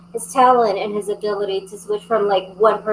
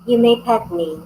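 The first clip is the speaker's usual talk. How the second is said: lightly voiced haughty pet; snooty bored cat. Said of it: "this cat's pretty well rules the house".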